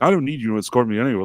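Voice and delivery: quick, mildly annoyed brush-off; imitating someone irritated, in own voice. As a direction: retell a curt refusal at a fast pace. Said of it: "she got really annoyed".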